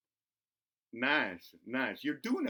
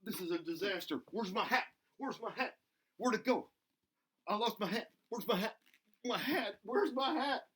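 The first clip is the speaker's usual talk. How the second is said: frantic, much higher mock panic over a lost hat; 9 semitones higher than usual. Bobby frets to the kids that his hat is gone, high comic panic. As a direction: squeal it out in comic alarm.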